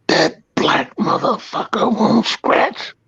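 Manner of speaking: imitating the jeering crowd, drawn out slowly; crowd uproar. The crowd jeering at the other corner, mock outcry. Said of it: "uproar went".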